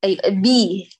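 بي with a full voiced kasra. Shown as a demonstration. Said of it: "أتمي كسرة الباء وهاتيها مجهورة".

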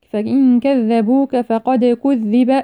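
slow chant, bouncing the d of فقد; echoing dal. Shown as a demonstration. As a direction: hum the n of فإن, then bounce the dal in فقد. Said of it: "فقد الدال مقلقلة". (ترتيل مع قلقلة دال فقد)

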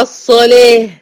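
"الصلاة" with a thin "leh" ending; light laam. Shown as a demonstration. Teacher repeats the correction, "الصلاة" with light laam. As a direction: keep the laam thin after heavy saad in "الصلاة". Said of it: "لأن اللام مرققة".

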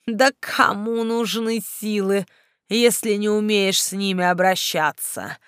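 scornful villain taunting; mocking necromancer. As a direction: sneer and ridicule her. Necromancer mocks the heroine. (насмешливый некромант)

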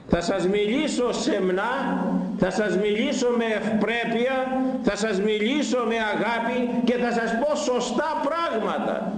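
the Lord speaking modestly to his people; gentle voice of the Lord. Acted. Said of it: "Έτσι είπε".

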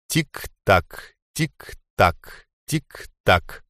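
a quiet, ominous tick-tock; ticking clock. A narrator's reading. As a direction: mark time like a clock. Narrator's ticking clock motif.

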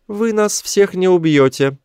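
high, slow creature voice; high-pitched confident alien leader; alien chief. A narrator's reading. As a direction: dismiss the threat slowly in a high alien voice. Alien chief scoffs at threat.

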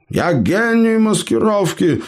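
high, self-important boast; Eber's pompous voice. Acted. Elf boasts to companions in Eber's pompous voice. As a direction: puff up like a proud gnome hero. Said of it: "важно вещал эльф голосом Эбера".

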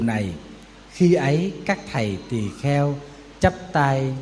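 slow, low, measured scripture recitation; solemn sutra reading. Acted. Monk reciting the Buddha's words to monks, slow and solemn.

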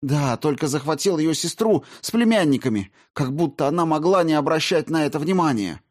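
bitter sarcasm. A narrator's reading. Olga sarcastic retort.

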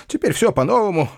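high, angry bark at the servant; furious shout. A narrator's reading. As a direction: rage at the French notebook. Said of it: "с яростью закричал он". (гневный высокий окрик)

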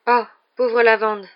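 slow, drawn-out pity; commiserate, voice lifted; sympathetic. A narrator's reading. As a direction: compassionate and lingering. Hermione pitying her crying friend.

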